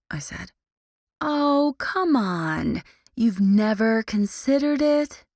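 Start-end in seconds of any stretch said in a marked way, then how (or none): 1.2-5.2 slow, lilting dreamy question. Acted. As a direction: drift off into romance. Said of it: "she asked dreamily".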